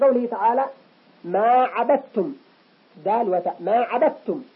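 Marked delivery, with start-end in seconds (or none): 1.2-2.3 dal in "عبدتم" merged into a doubled t; assimilated dal. Shown as a demonstration. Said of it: "هكذا كما نسمع". 3.6-4.4 dal in "عبدتم" turned into t; fuse d and t into one doubled t in "عبدتم"; assimilated dal. Shown as a demonstration. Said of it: "كأن الدال تحولت إلى تاء".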